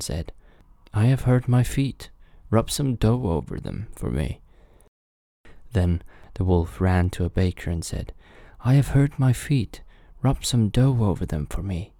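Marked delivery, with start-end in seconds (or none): 0.9-4.4 lightly voiced wolf, pitched up; wolf pleading. Wolf asks the baker for dough, higher pleading voice. 8.6-11.9 lightly voiced wolf, pitched up; wolf pleading. Wolf asks the baker for dough, higher pleading voice.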